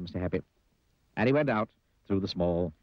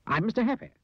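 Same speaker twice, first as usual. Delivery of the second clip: sad squeaky voice; 13 semitones higher, faster than usual. Acted. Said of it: "Sad, squeaky sort of voice".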